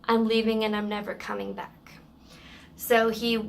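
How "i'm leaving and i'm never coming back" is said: quick retold snap, barely raised; mild mock snap. Angry customer snapping at the general manager, quick mild mock snap. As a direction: toss off the exit line quickly. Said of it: "and snaps".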